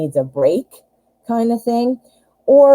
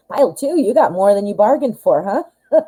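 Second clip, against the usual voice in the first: teasing; 4 semitones higher than usual. Real, not acted. Teasing the pile after coughing.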